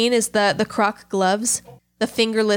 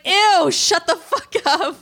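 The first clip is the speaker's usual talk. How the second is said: high, drawn-out imitation of revulsion; exaggerated squeamish dismissal; mock disgust; 8 semitones higher, slower than usual. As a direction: imitate someone recoiling, slow and high. Voicing disgusted reaction in retelling.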